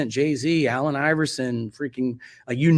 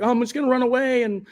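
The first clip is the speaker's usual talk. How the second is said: panicked inner voice; 7 semitones higher than usual. Retold or imitated. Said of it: "you have those thoughts of, like".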